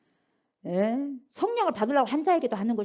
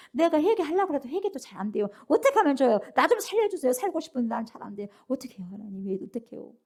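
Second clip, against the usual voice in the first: helpless pleading. Acted. Acting a penitent's prayer.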